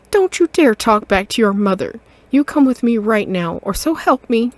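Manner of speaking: loud, scolding mother cat. Acted. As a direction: tell off your grown son. Mother scolding her son.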